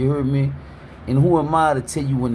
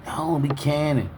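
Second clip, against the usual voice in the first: careless shrug. Retold or imitated. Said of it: "that's how they say it".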